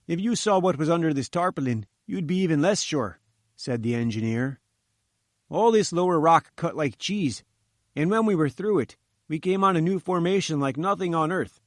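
uneasy workman recounting what they dug into; lightly voiced engineer. Chief engineer tells visitors about the hidden rock, lightly voiced uneasy.

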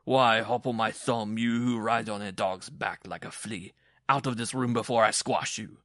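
loud, blustering mockery; bully the little man at high volume; roaring taunt. A narrator's reading. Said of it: "he roared".

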